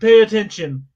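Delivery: firm, insistent retort; yelling. Real, not acted. Insisting to a teasing co-host, yelling. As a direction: push it out over the interruption. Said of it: "You don't need to yell".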